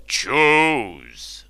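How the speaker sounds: curt royal command; ordered. Acted. Ubar ordering the slave woman, a clipped command. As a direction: bark the order like a king. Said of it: "ordered Marlenus".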